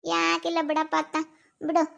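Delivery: soft, subdued brush-off; downhearted. Acted. Telling the worried parent it is nothing, downhearted. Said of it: "ಯಾಕೋ ಬೇಜಾರಾದಂಗ್ ಆಗೈತೆ".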